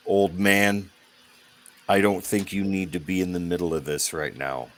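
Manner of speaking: put-on rough, low-set bruiser warning an old man off; a gravelly heavy telling the old man to move along. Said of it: "a deeper, more gravelly voice".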